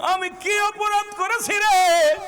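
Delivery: high, loud, drawn-out lament; anguished wail. Acted. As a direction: wail the grievance in a long melodic cry. Prophet laments to Ali, wailing. (চড়া গলায় টানা আহাজারি)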